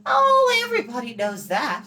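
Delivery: very high, loud Oh, then breezy; girl's dismissive high exclaim. Acted. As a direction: brush it off like a know-it-all girl. Eilonwy voiced in story.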